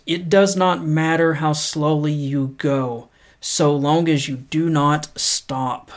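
measured, unhurried reading of a quote; paced motivational read; slow inspirational quote reading. Acted. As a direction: read it slow and earnest, letting each line land. Reads Confucius quote slowly.

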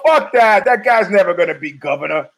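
brash retold brush-off; mock defiant retort. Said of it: "I go".

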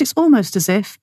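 "almost" picked out with emphasis; stress on almost. Real, not acted. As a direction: put the weight on "almost". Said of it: "I emphasize the word almost".

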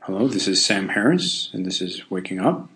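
light podcast-host impression with upturned endings; a hint of mannered podcast voice; Sam Harris. Shown as a demonstration. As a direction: lightly mimic a podcaster's inflection, lifting each phrase ending. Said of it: "do my Sam Harris impression".

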